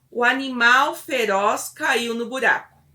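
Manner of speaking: frase ditada com voz mais forte; ditado de teste. Shown as a demonstration. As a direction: dite com clareza para a criança repetir. Dictates test sentence to child. (ditado em voz alta e articulada)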